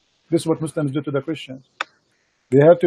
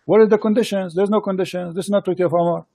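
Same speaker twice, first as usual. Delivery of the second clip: higher, insistent rejection; indignant disbelief; 4 semitones higher than usual. Real, not acted. Host rejecting the guest's pasted treaty, indignant and higher. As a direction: refuse to accept this text, pitch raised and pressing.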